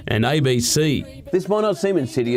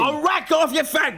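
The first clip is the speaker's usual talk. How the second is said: much higher cartoonish retort; high put-on voice; 12 semitones higher than usual. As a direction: snap back in a squeaky voice.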